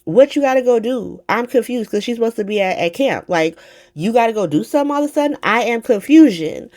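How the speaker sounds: high-pitched, animated mock confusion; retold incredulous outburst; incredulous challenge. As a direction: act out a baffled confrontation. Retelling an incredulous confrontation.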